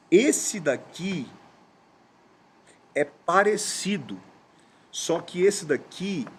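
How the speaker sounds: slow, spaced-out explanation; stretched words with long pauses; patient explaining to child. Retold or imitated. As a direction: explain it to a small child, word by word. Dad explaining simply to daughter.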